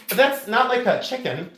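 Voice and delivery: laughing through the words; cracking up while teasing her. Real, not acted. Laughing at mom's bad chicken noise, amused.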